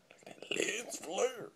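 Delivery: high, slow, delighted exclaim; excited squeal. Real, not acted. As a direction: gush over the lens flare.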